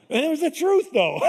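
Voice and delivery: breaking into real laughter mid-line; giggling as he admits it; laughing. Real, not acted. Laughing at his dad's reply.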